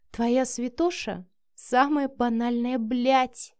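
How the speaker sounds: slow, scornful and contemptuous; contempt. Acted. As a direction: spit it out with disdain. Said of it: "с презрением произнесла Миранда".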